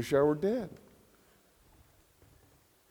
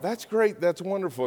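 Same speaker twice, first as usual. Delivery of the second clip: higher, bright cheer; cheering crowd; 5 semitones higher than usual. Acted. The people answering Moses' promise, excited and higher.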